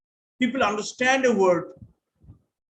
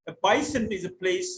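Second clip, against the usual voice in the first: Cockney accent; 3 semitones lower than usual. Shown as a demonstration. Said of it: "So that's typical Cockney".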